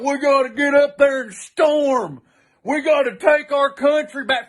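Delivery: mock rallying cry. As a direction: imitate a fired-up would-be patriot. Mocking old teammates' rallying talk.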